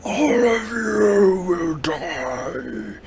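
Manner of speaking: slow, high, drawn-out doom cry; menacing creature cry. Acted. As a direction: wail the threat out slowly.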